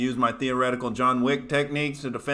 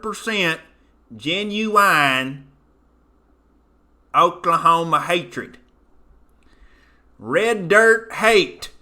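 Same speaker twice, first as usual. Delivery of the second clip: Oklahoma accent. Shown as a demonstration. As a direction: play the redneck barbecue host. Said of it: "I can get real Oklahoma real quick now".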